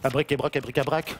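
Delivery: low, mysterious spell voice; kids party magician. Acted. Reciting a magic formula.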